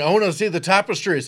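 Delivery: a hint of a bad Scottish accent; lightly mock Scottish lord. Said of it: "he's doing a Scottish accent".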